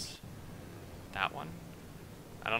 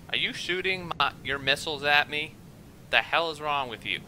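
raised, heated complaint at teammates; real frustration at the game, pitched up and louder; worked up; 5 semitones higher, 4 dB louder than usual. Real, not acted. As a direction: get annoyed and raise your voice. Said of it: "I'm getting a little worked up".

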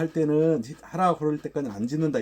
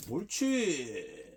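long drawn-out, softer "good"; soft praise; 6 dB quieter, much slower than usual. Real, not acted. Trainer rewarding the dog for barking, soft praise. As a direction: stretch the praise out slowly, gently. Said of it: "칭찬은 아주 부드럽고".

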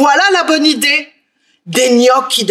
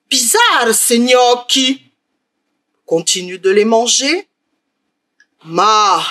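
suspicious ogre. Acted. Ogre tastes the dung gnocchi.

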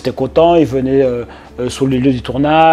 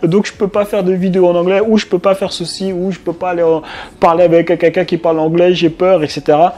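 higher-pitched imitation of worriers; mock fretting; 4 semitones higher than usual. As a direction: lightly act out someone listing anxious excuses. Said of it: "ils se prennent la tête".

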